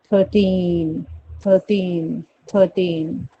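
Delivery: repeated model "थर्टीन", end syllable stretched; stress on TEEN. Shown as a demonstration. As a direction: drill "थर्टीन" with a long "टीन". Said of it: "ट पे ज्यादा press".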